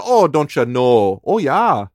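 put-on Minnesota accent. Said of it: "I would start to sound like that".

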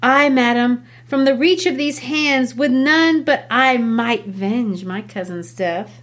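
teacher reading Juliet's double-speak to her mother. Acted. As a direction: speak with hidden double meaning. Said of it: "I'll read Juliet".

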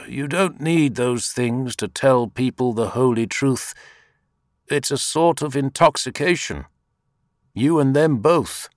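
rebuke. A narrator's reading. Teacher rebukes his robed disciple, emphatic. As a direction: admonish with rising force.

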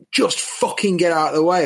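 mock aggressive command; retold shouting. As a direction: imitate an officer yelling, at half force. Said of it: "no need to scream in our faces".

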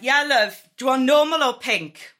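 hammed-up friendly barmaid offering options. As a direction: barmaid cheerfully asking about gin. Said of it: "she went".

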